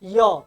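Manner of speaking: य said slowly and held so the tongue position shows; teacher demonstrating य slowly for students; sound demo. Shown as a demonstration. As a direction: model the sound य, slow and clear, tongue kept low. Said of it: "अब देखो य".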